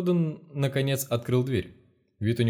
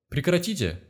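high panicked cry to stop him; a pitched-up shout at the man breaking the discs; 7 semitones higher than usual. A narrator's reading. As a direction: yell it in a high alarmed voice. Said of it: "крикнул Гордон".

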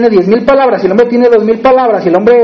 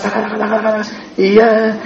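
rapid-fire taca; 5 dB quieter than usual. Retold or imitated. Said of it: "mis ráfagas".

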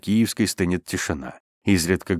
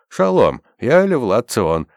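high, loud greeting shouted out; shouting; 5 semitones higher, 5 dB louder, slower than usual. A narrator's reading. Armed rescuer introducing himself, shouting. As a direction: shout the greeting, then stretch the name. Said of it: "крикнул".

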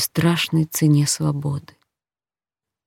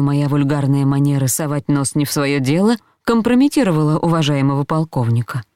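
plain reading voice

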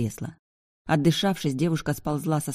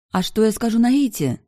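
high, louder anxious exclamation; exclaiming; 7 semitones higher, 5 dB louder than usual. A narrator's reading. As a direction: cry out in worried protest. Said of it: "воскликнула она". (взволнованно воскликнуть)

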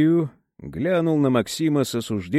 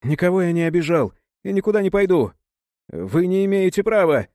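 indignant; 5 semitones higher, faster than usual. A narrator's reading. Maxim refusing the thug, indignant and raised. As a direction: push back hard, you've had enough. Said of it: "и возмутился".

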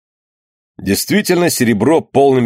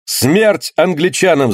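slow, drawn-out battle cry; shouting; 5 semitones higher, slower than usual. Acted. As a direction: yell it as a war cry. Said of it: "закричали остальные".

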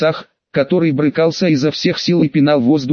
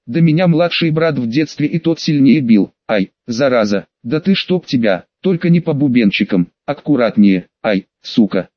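usual speaking voice

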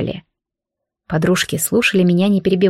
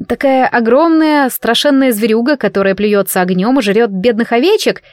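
usual speaking voice

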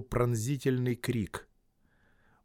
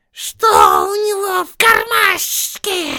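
much higher, louder, slow furious shriek; shrieking Gollum; 11 dB louder, much slower than usual. Acted. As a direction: scream it in rage. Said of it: "громкое шипение".

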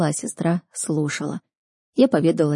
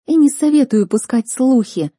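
higher, louder threatening tone; sharp threatening warning; stern warning; 6 semitones higher, 5 dB louder than usual. Acted. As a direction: warn her off firmly. Lin warns Chloe.

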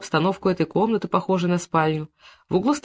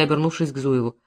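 plain reading voice

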